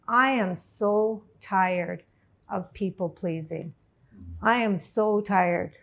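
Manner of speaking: slow, drawn-out weariness; weary resolve. Retold or imitated. Woman deciding she is done with people pleasing, slow and weary. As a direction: stretch each word, worn out. Acts out her weary decision.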